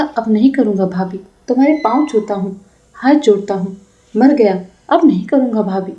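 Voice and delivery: lightly nasal, mimicking a pleading boy; mock his begging through the nose; mocking nasal whine. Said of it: "सानुनासिक स्वर बनाकर कहने लगी". (नाक से बोलकर चिढ़ाते हुए)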